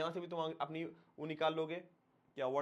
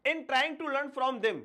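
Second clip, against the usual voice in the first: slow reading; 9 semitones higher, 5 dB louder, much slower than usual. Shown as a demonstration. Teacher reads the English text aloud.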